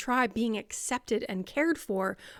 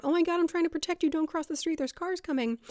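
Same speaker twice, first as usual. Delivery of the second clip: higher, rushed anxious warning; freaking out; 6 semitones higher, faster than usual. Acted. Madwoman trying to protect you from cars, freaking out. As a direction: blurt the warning in mild panic. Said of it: "You are the freaking out".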